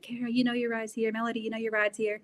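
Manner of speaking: lightly imitating a Russian accent; a hint of grandpa's Russian accent, teasing; Russian accent imitation. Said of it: "speak in his Russian accent".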